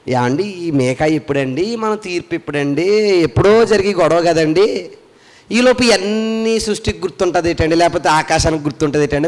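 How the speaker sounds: lightly voiced disbelieving listener; imagined doubter. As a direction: drag out the doubter's questions.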